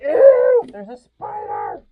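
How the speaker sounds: disgusted surprise. Real, not acted. Sees a spider under house.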